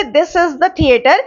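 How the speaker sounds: very slow, word by word example sentence; slow dictation. Shown as a demonstration. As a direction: spell out each word slowly for students. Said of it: "ये वही वाला theatre है".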